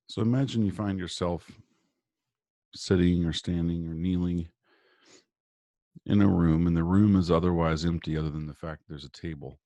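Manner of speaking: calm, measured guiding voice with long pauses; guided meditation. Real, not acted. Guest doctor leading listeners through morning breathing and visualization, guided meditation.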